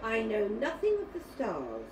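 put-on expressive, measured storytelling for children; story narration. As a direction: read it like a picture-book tale, pausing between phrases. Reads a children's story aloud.

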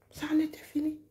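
soft whispered echo. Real, not acted. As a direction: whisper the words "Ça en était fini". Repeated line, now whispered.

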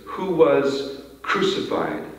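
slow, weighty "Who was crucified?". Shown as a demonstration. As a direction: let "Who was crucified?" sink in slowly. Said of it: "slow these phrases down".

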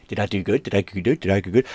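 soft, rising little questions; eager dog. Retold or imitated. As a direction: voice a dog softly asking for praise. Voices the dog seeking praise.

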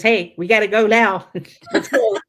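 mock-urgent call breaking into a laugh; playful urgency dissolving into laughter; laughing quote. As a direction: voice Joseph hurrying her and laugh through it. Joseph quoted, laughing midway.

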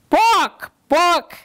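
high loud clucked book; polite hen cluck. Acted. The hen asks the librarian for a book, clucking high. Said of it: "clucked the hen".

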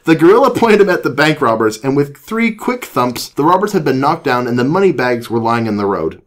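animated read-aloud voice; story narration. A narrator's reading. Reads a children's story aloud.

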